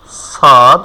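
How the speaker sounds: সদ said heavy and drawn from the throat; teacher sounds out সদ for students to copy; letter demo. Shown as a demonstration. Teacher repeats সদ slowly for the class. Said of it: "তো আমরা উচ্চারণ করতেছি সদ".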